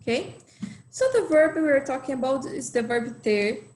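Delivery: ordinary talk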